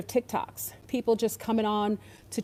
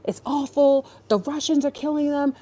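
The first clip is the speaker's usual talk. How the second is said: lightly mocking shocked tone; mock outrage; 4 semitones higher than usual. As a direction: parody the news-fed crowd's pity. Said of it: "So we're here".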